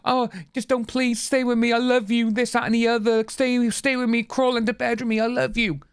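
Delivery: mock her pleading to stay. Mocking Amber's love bombing pleas.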